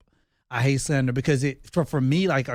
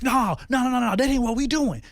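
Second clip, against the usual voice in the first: high mock protest; 10 semitones higher than usual. Husband mimicking wife's refusal in a high voice. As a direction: pipe up the playful refusal.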